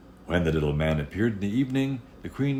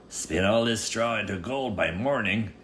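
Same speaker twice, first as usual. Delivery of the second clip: lightly voiced king; 5 semitones higher than usual. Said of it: "said the king".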